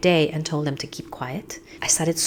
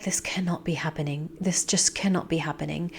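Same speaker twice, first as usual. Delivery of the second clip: whispered in disbelief, under the breath; a stunned, breathy whisper to herself; panicked whisper; 7 dB quieter than usual. Retold or imitated. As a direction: hush it out as if too scared to say it aloud. Retelling panic during labor.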